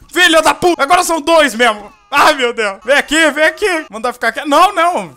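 loud, high frantic cursing and calling; panicked yelling. Real, not acted. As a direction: chaos in the house, yell over it. Babies crying, player panics.

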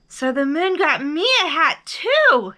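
high, loud delight; excited rise to a very high finish; exclaimed. A narrator's reading. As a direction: exclaim in happy surprise. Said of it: "exclaimed Bear".

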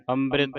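ਅੰਮ੍ਰਿਤ said as am-brit with a clear b; with a b sound. Shown as a demonstration. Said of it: "ਬੱਬੇ ਦੇ ਨਾਲ ਉਚਾਰਨ ਕਰਨਾ ਹੈ". (ਅੰਮ੍ਰਿਤ ਬੱਬੇ ਨਾਲ)

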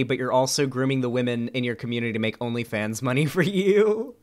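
steadily climbing incredulous question; mocking incredulity. Streamer throwing an accusation back at critics, mocking incredulity. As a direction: let the disbelief rise to the last word.

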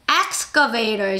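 excavator drawn out very slowly, each syllable clear; teacher modelling a word very slowly; slow model word. Shown as a demonstration. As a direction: stretch out excavator for learners to copy. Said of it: "시작".

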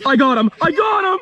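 shouting I got him at full voice, high and loud; real triumphant shout. Real, not acted. Angler grabbing his catch, shouting in triumph. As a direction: yell it out as the fish comes in. Landing the snook.

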